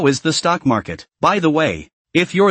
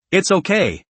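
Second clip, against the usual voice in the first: excited; 4 semitones higher than usual. Acted. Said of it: "Luo Feng said excitedly".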